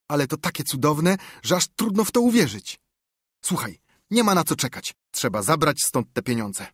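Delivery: bubbling over at the treasure; thrilled boy. Acted.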